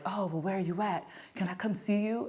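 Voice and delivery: imitated needy texter. Mimics the psychopath's text.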